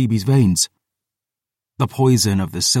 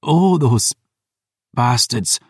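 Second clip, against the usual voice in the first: pained laugh; 3 semitones higher, slower than usual. Acted. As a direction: curse them through pained, bitter amusement. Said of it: "she laughed".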